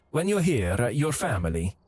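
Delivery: put-on a light Italian accent on the Olive Garden slogan; weird Italian accent. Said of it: "I said in a weird Italian accent".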